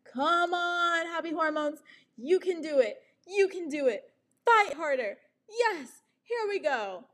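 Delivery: high, eager cheerleading; self pep talk. Retold or imitated. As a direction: hype yourself up. Cheering herself on in mirror.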